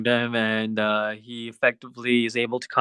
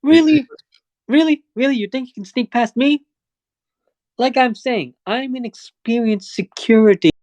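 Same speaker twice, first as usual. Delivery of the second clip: smug guard; 10 semitones higher than usual. Acted. Guard catches Charlie sneaking past, high mocking challenge. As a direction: sneer at the sneak you caught.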